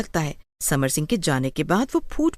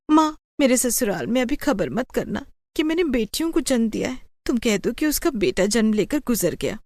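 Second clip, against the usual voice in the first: pleading daughter; 5 semitones higher than usual. Acted. Daughter begs mother to hide births.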